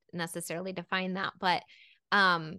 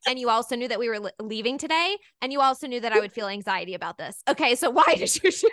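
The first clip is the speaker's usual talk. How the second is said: mock exasperated mom; 3 semitones higher, 4 dB louder than usual. Mom lecturing her twelve-year-old who is God, mock exasperation. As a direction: pile up the points, breaking into laughter by the end.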